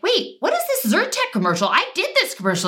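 high, fast startled disbelief; mock outrage at hearing someone else's voice on your own ad; retold surprise. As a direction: spill it out fast and high, caught off guard. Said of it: "and I was like".

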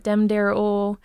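slow "dem dare-ol" with D in place of TH; rural D for TH. Shown as a demonstration. Coach demonstrating rural speech, D for TH. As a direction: stretch out "dem dare-ol", hard D for TH. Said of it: "that D T H thing".

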